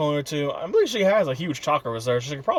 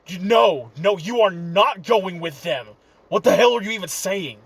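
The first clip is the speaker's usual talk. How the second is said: louder, higher protest; angry objection; 4 semitones higher, 3 dB louder, slower than usual. Acted. Kurama to Naruto, heated angry protest. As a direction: refuse him outright, heated.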